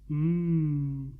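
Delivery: low mumbled hum of approval. A narrator's reading. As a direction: hum it low under the breath. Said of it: "he mumbled".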